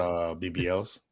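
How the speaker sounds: low, slow menacing crime boss; Kingpin. Pretend. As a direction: rumble it like a calm mob boss. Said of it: "pretty good Kingpin impression".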